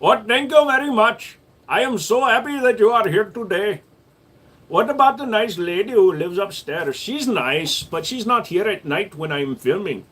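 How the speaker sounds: high, lilting mock Asian accent; put-on Asian accent. Shown as a demonstration. Showing viewers he can change accent, high put-on Asian accent. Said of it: "But how about this?".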